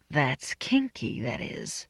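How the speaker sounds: soft, slow, intimate murmur; murmured in his ear. A narrator's reading. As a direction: breathe it low into his ear. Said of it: "I murmured in his ear".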